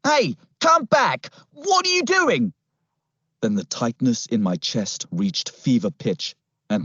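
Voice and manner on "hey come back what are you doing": high-pitched alarmed shout; shouting policeman. A narrator's reading. Policeman shouts after the boy running to the cliff, shouting. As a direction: call out urgently after someone running off. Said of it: "the policeman shouting".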